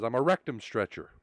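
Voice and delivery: matter-of-fact deadpan quote. Acted. Driver confesses his odd job to the cop, deadpan. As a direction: deliver it straight-faced, as the driver. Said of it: "with a dead face".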